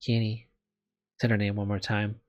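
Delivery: measured visual novel read-aloud; story narration. Acted. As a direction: read it out as a first-person story. Reads visual novel text.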